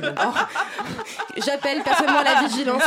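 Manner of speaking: pompous warning through laughter; mock solemn. Host jokingly calls the table to vigilance, laughing. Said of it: "on a déjà deux points de vigilance".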